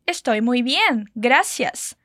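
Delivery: slow, clear Estoy muy bien, gracias; slow model phrase. Shown as a demonstration. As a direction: say it slowly for the learner. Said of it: "como a gente diz".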